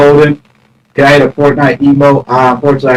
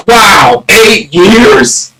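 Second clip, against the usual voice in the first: rising, cry-like mock disbelief; mock shocked wow; 5 semitones higher, much slower than usual. Streamer to viewers, mock shocked disbelief. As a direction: act stunned at eight years.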